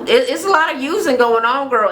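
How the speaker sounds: high, lively emphasis on "a lot of using"; emphatic agreement. Real, not acted.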